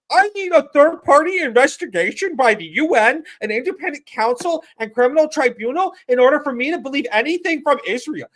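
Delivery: mimicking critics demanding a UN investigation; mocking whiny demand. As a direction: sneer it like a sanctimonious critic. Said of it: "these motherfuckers are going".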